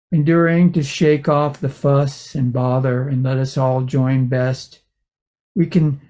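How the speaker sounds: measured reading with pauses between phrases; poem reading. Acted. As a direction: read your poem, phrase by phrase. Reads a poem aloud.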